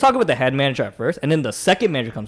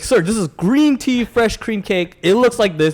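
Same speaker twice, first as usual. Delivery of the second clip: slow, higher, spelled-out delivery; painstaking explanation; 5 semitones higher, slower than usual. Retold or imitated. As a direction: retell it like explaining to someone not listening. Re-enacts explaining cake to customer.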